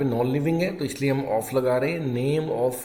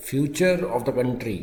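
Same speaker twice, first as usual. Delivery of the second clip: slow, even dictation pace; much slower than usual. Shown as a demonstration. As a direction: say it slowly so they can write. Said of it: "देश का भविष्य". (धीरे धीरे लिखवाना)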